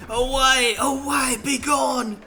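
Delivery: high, loud theatrical cry; hammed-up banishing shout. Old sailor driving visitors off, hammed-up shout. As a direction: banish them with over-the-top shrieks.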